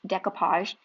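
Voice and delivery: decoupage said the Texan way she learned it. Real, not acted. Crafter showing viewers her Texan way of saying it, a Texan pronunciation. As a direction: decoupage said the way she always has. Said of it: "I say that like a Texan".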